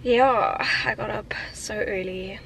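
barely awake and husky; sleepy voice. Real, not acted. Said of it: "Excuse my sleepy voice".

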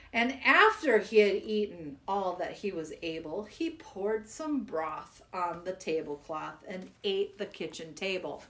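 lively recital, listing foods rhythmically; poem reading. Acted. Reading Hungry Mungry to children, lively. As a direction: read the list with relish.

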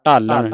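ਢਾਲਣ starting on retroflex ਢ; dhadda initial sound. Shown as a demonstration. Teacher pointing out the letter, ਢਾਲਣ with retroflex ਢ. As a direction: curl the tongue back for the ਢ of ਢਾਲਣ. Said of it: "ਢੱਡੇ ਦੇ ਨਾਲ".

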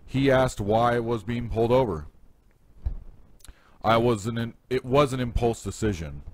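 projected, deliberate read-aloud; short story narration. Acted. Author reading his courthouse story to listeners, projected narration. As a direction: tell it to the room, phrase by phrase.

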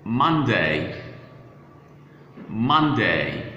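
"Monday" ending in a clear "day"; full-vowel pronunciation. Shown as a demonstration. Teacher showing the class how to pronounce days, clear full "day" ending. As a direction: say "Monday" with its last syllable rhyming with "say". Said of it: "how to pronounce days of the week".

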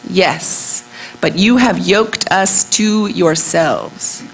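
measured poetry recital, often slow; poem reading. Acted. Sabine women address their husbands, measured poem reading. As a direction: read it as verse, phrase by phrase with pauses. Reads her poem aloud.

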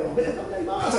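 high, laughing little flower voice; flowers congratulating. Retold or imitated. Roadside flowers greeting the newly baptized, high and giggly. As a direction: squeak it out like a tiny happy flower.

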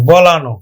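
বলানো said with a closing o sound, bo-la-no; teacher spells out বলানো clearly; syllable by syllable. Shown as a demonstration. Teacher shows students how to say it. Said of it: "উচ্চারণ করবো আমরা ব-লা-নো".

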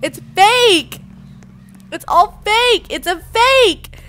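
high, loud protest; frantic shout. Pretend. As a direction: cry out as if nobody will listen. Nobody listens to the warning.

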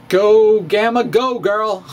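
mock cheerleader shout dissolving into a laugh; playful cheer. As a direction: burst out loud on go, then laugh it off. Cheering on gamma matrix.

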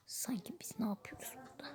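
very soft, whispered grumble; muttering under breath. Acted. Waiter grumbling about customers, muttering under the breath. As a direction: grumble it quietly, barely meant to be heard. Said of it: "Bir şey mi dedi o bize?".

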